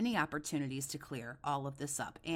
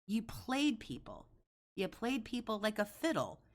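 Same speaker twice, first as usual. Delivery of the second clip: high, heated, accusing rant; wild unhinged ranting; 5 semitones higher than usual. Real, not acted. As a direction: lay into him, voice up. Escalating rant, higher pitch.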